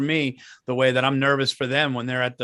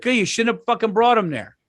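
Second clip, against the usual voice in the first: mock retort; 9 semitones higher, 5 dB louder than usual. Retold retort to wife.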